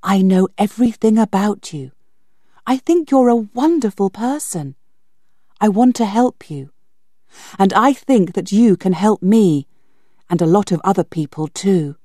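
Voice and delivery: put-on girl confiding in B Z, earnest. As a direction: win him over.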